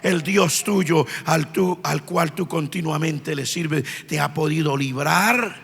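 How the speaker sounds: low, soft, slow and grieving; sad, hushed question. Retold or imitated. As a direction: ask it quietly, fearing the answer. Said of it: "con una voz muy triste". (el rey pregunta en voz baja y dolida)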